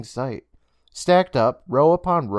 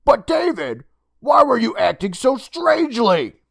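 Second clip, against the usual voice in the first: higher motherly voice, puzzled; 12 semitones higher, 5 dB louder than usual. Acted. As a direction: ask your son what was wrong. Mother questions her son.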